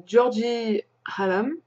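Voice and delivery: English name with a French accent. Real, not acted. Vlogger crediting the pattern's designer, French accent. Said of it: "Pardon pour mon superbe accent français".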